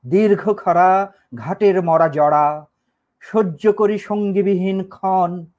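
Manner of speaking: slow, measured verse reading; unhurried poetic delivery with held line endings; poem recitation. Acted. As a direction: recite it slowly, drawing out each line.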